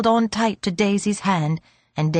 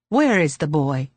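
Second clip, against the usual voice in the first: put-on mildly fretful old man's question; 4 semitones lower than usual. A narrator's reading. Old man wanting to see his ward, mildly fretful. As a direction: break off with a touch of impatience. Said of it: "he interrupted himself fretfully".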